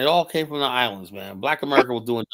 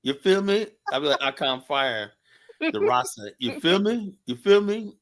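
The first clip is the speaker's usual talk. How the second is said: playful Jamaican patois, pitched up; Jamaican accent; 4 semitones higher than usual. Pretend. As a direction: tease with a quick Jamaican accent. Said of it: "Let me hear your Jamaican accent".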